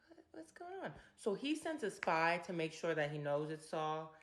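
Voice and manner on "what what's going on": high, breathless whisper of alarm. Retold or imitated. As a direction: hiss it out in a panicked whisper. David whispering, alarmed in wilderness.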